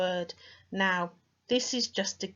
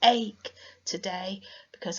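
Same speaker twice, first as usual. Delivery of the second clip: complaining; 3 semitones higher, 6 dB louder, slower than usual. Shown as a demonstration. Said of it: "We say".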